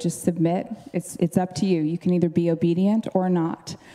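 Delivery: normal talking voice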